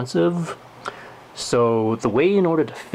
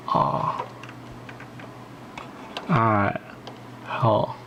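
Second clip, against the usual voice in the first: mouth full; 5 dB quieter, much slower than usual. Real, not acted. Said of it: "hard to talk with this thing in my mouth".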